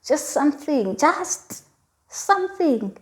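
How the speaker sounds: beg, the pitch rising with each "just something"; retold pleading. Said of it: "But I was like".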